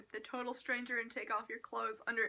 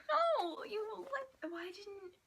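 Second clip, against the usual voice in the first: exasperated rant; 3 semitones higher, faster than usual. Retold or imitated. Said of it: "Just like".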